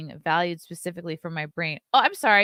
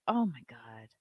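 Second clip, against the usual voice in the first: exasperated whisper under the breath; whispered oh my god; 8 semitones lower, 7 dB quieter than usual. Real, not acted. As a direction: breathe it out in disbelief. Exasperated aside.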